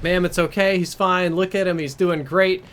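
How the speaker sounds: placating. Retold or imitated. Friend assures angry mother her son is fine, placating.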